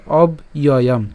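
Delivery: অব ইয়য়াম split as "ob, iyoyam"; broken into parts. Shown as a demonstration. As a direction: separate "ob" from the glide in অব ইয়য়াম. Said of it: "ভেঙে উচ্চারণ করলে".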